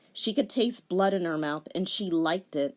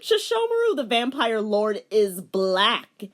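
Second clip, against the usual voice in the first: laughing; 4 semitones higher, 6 dB louder than usual. Real, not acted. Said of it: "oh my god".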